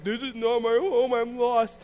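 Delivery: slow, whiny lost voice; mock lost. Believer pretending to be lost, mock whiny. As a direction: play a lost child, lightly.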